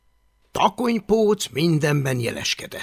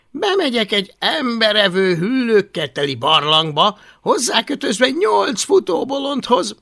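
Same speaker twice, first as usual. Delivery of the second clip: higher, louder dry complaint; sarcastic grumbling boy; 7 semitones higher, 4 dB louder than usual.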